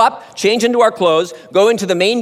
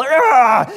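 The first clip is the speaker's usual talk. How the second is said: weird yell; 5 semitones higher than usual. Retold or imitated. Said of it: "yelling out this weird yell".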